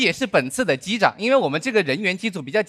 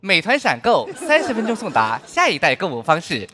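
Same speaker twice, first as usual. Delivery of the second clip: ad read. Acted. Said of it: "接下来是一则飞机广播".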